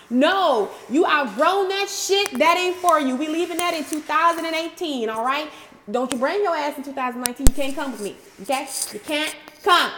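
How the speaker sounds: put-on loud, high, sassy dismissal of old thoughts; sassy telling-off. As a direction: tell those thoughts off with attitude. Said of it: "That's how you gotta talk to those things".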